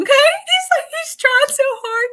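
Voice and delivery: high, giggly, through laughter; can't stop laughing at his efforts; laughing while speaking. Real, not acted. Medium laughs describing the boy's cartwheel, giggly and high.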